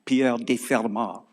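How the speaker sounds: slow, hammed-up French accent; American lecturer's playful French accent. Shown as a demonstration. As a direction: say Pierre de Fermat in a put-on French accent. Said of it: "with a French accent and wear a beret".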